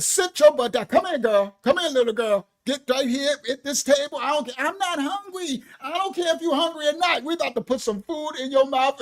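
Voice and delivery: rough grandma ordering him to eat; bossy loud grandma. Retold or imitated. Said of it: "My grandma said".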